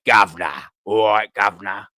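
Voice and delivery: low, loud East London geezer. Shown as a demonstration. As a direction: drop deep and punch it out hard. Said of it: "When you got that deeper voice".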